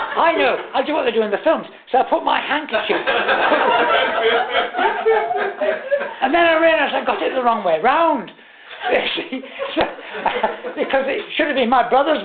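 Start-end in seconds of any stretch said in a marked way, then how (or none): 3.0-6.2 helpless high laugh; laughing until breath runs out; real long laughter. Real, not acted. Teller laughing to the audience about the handkerchief trick.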